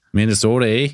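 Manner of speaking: lightly put-on Minnesota accent; playful imitation of Minnesota speech; mock Minnesota accent. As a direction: tease with a Minnesota accent and a questioning "eh". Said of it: "we don't talk like Minnesota".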